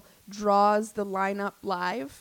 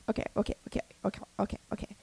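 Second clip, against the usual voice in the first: calming down; 7 dB quieter, much faster than usual. Real, not acted. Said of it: "slow down".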